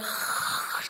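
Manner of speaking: noisy imitated slurp of spraying soda; drinking noise. Brothers drinking from punctured cans, noisy slurp. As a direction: mimic gulping from a spurting can.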